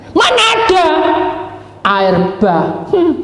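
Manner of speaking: high mocking disbelief; scoffing. Friend scoffing at Noah's flood warning, mocking. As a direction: sneer at the idea.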